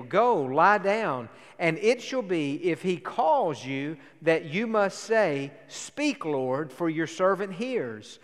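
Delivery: measured pulpit reading of the Bible; scripture reading. Acted. Pastor reads First Samuel to the church, measured and steady. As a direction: read the story to the congregation steadily.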